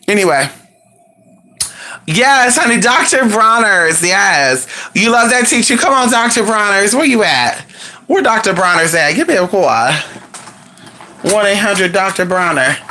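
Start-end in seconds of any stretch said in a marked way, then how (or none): 2.1-12.8 mock ad hype. Hyping the soap like an ad.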